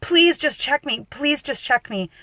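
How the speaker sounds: mildly voiced, insistent begging. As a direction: imitate a patient pleading. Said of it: "She literally begged him".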